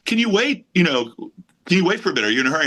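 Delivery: high, polite imitation of Paul; Paul impression. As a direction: play Paul asking kindly. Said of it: "He goes".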